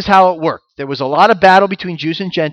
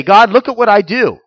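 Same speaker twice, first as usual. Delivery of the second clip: boastful prayer; 4 semitones higher, 3 dB louder than usual. Retold or imitated. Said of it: "doing it to win favor with God or to say".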